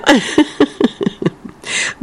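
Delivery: high breathless laugh; airy laugh. Real, not acted. Host laughs as the dog flops down, airy laugh. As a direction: laugh fondly at the lazy dog. Dog lies down after running.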